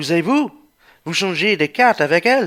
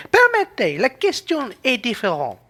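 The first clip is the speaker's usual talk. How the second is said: raised objection; 6 semitones higher than usual. Acted. Man objecting to the wife's insults, raised voice. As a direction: cut her off, insisting.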